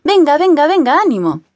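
coach shouting. A narrator's reading. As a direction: drive the players on from the sideline. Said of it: "Gómez grita a sus jugadores".

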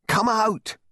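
high, drawn-out yell; urgent shout. A narrator's reading. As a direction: shout for someone to get out. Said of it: "shouted Dutton".

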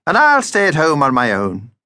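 high, martyred little vampire voice; self-pitying vampire. Acted. Vampire tells the family he'll stay home, martyred. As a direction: play the hard-done-by vampire, laying on the self-pity.

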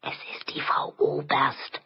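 confidential, breath-only whisper; hushed, voiceless aside; soft whisper. A narrator's reading. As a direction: whisper it to her like a secret. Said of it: "Leise flüsterte er ihr noch zu".

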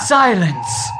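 a touch of a stern shout; stern brother silencing the boys; thundering command. A narrator's reading. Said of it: "His voice thundered".

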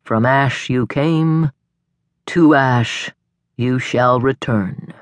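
slow, solemn ritual intoning. A narrator's reading. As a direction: intone it slowly, like a priest with the ashes. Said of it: "he intoned".

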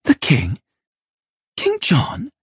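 high-voiced boy, taken aback; astonished young lad; surprised. A narrator's reading. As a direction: query it in startled disbelief, pitch jumping up. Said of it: "Simon asked, surprised".

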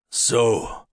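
slow, lightly voiced old chief; a hint of a menacing old laird; old Scottish laird. A narrator's reading. Colum speaks.

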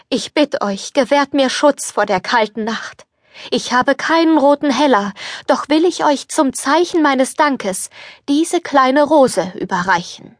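put-on old beggar woman. Old beggar woman asks the prince for shelter, humbly. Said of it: "sagte sie".

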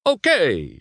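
high-pitched call to the crowd; mild shout. Acted. Luigi to the reporters, mild shout. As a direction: break in to take charge. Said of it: "shouted Luigi".

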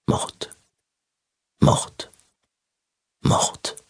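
whispered. Acted. Echoing word in her head.

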